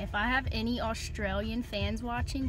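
clumsy put-on Australian accent; bad Australian accent. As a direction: try an Aussie accent and do it badly. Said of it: "This accent is really bad".

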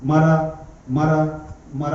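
slow, low attempt at a sacred word; halting mock recitation. Preacher shows what Valmiki managed to utter, halting recitation. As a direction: imitate a novice repeating it haltingly. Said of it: "ఏమని పలికాడు?".

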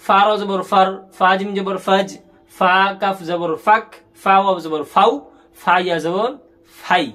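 letters named one by one, then joined, as in ফার and ফাক; measured drill landing on blends like ফাউ; spelling and joining. Shown as a demonstration. Teacher showing how the page is read, spelled-out recitation. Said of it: "এই যে আমি মিলিয়ে মিলিয়ে পড়তেছি".

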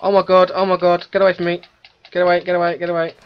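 high frantic shouting; raging gamer. Real, not acted. Still being attacked, keeps yelling.

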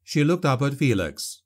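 plain reading voice

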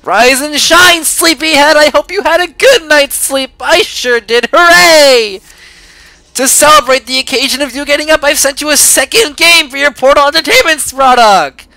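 high, loud, beaming wake-up call; chirpy cartoon host. Greeting a prisoner awake as game host, high and beaming. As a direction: sell it like an over-eager cheerful mascot. Reads cheery host letter aloud.

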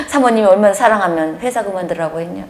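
fast, laughing through 사모님이 rising; real laugh in the words; laughing retort. Real, not acted. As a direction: chuckle it out, amused. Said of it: "laugh heard on line".

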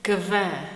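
Kve, a crisp k then v; Czech kve. Shown as a demonstration. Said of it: "we pronounce it as".

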